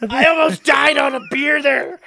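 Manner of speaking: loud, high laughing words; laughing hard while talking. Real, not acted. Laughing after choking on beer.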